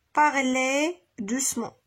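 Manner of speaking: slow, spaced dictation of the words. Shown as a demonstration. Teacher dictates to pupils, slow and spaced. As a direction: say each word slowly for copying. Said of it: "E Z à la fin".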